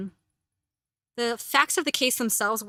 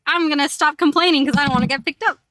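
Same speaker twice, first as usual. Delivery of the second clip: voicing the cat; 6 semitones higher, 10 dB louder than usual. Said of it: "He's like".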